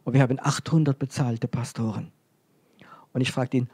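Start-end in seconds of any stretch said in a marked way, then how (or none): 0.0-2.1 proud boast. Retold or imitated. Church president telling the preacher about six hundred congregations, proud boast. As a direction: imitate a leader proudly announcing his numbers. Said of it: "er sagte immer ganz stolz".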